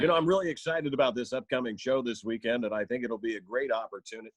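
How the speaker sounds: polished promotional radio-interview patter; lightly put-on radio guest voice. Shown as a demonstration. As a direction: plug the show in an on-air voice. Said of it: "I sound like that".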